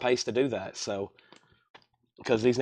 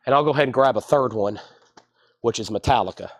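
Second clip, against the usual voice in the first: breathless, breathing through the mouth; faster than usual. Real, not acted. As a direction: talk while winded and short of breath. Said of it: "Sorry, I'm out of breath".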